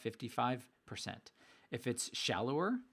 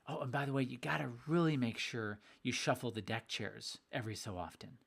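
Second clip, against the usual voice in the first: sarcastic; 3 semitones lower than usual. Acted. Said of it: "Yes, I'm being sarcastic purposely".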